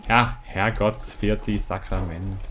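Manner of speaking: slow, hammed-up Bavarian swearing; mock Bavarian curse. Gamer fakes a Bavarian curse at the game, slowly. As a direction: drag out the curse like an old Bavarian. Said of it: "Jetzt mische ich auch noch Akzente miteinander".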